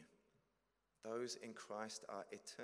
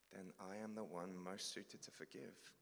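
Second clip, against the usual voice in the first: calm Jesus. Acted. Jesus answers.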